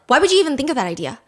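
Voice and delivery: dismissive. Retold or imitated. Mocking the harsh judge.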